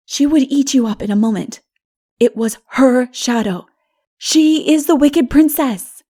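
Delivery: put-on frightened child. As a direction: scare your friend away from her.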